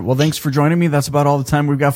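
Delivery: fast joking wrap-up; mock sign-off. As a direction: pretend to end the show quickly. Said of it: "no, I'm just kidding".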